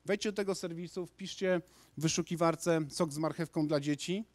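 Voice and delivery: ordinary talk, nothing marked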